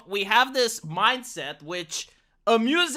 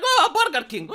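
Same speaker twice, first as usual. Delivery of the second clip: mocking the brand name through a laugh; laughing scoff; 5 semitones higher, 3 dB louder than usual. The speaker seeing it in stores, laughing scoff. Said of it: "I'm like".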